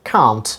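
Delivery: can't with a long open a, British style. Shown as a demonstration. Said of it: "In British pronunciation it is pronounced".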